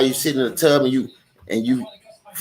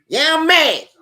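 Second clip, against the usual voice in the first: higher, emphatic mock-outraged yeah; exclaimed admission; 12 semitones higher, 3 dB louder, slower than usual. Real, not acted. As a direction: burst out with it. Repeats he is mad, louder.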